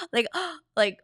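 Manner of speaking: two short shocked gasps; demo gasps. Shown as a demonstration. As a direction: gasp twice in surprise. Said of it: "It's like a sound".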